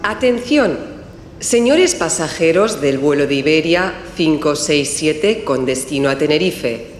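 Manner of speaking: formal public address announcement; airport announcement. Acted. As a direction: call passengers to their gate over the terminal speakers. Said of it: "Está en el aeropuerto y oye el siguiente aviso".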